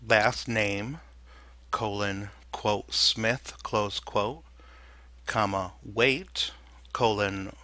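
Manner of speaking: dictating. Shown as a demonstration. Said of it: "the following example is a simple object data type".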